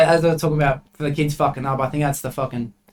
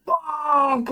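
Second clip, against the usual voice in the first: retold scream; 12 semitones higher than usual. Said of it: "I just started screaming".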